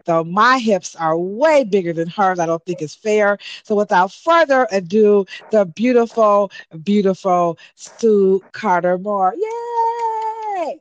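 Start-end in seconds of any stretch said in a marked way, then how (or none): 3.6-9.3 announcer introduction. Real, not acted. Grand guest introduction. 9.4-10.8 very high cheerful Kermit yay; Kermit the Frog voice. Pretend. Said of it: "That's my Kermit the Frog voice".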